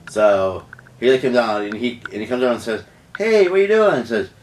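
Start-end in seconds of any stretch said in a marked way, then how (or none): 3.2-4.0 put-on high, pitched-up "hey" confronting a boyfriend; retold confrontation. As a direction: act out catching him, starting high.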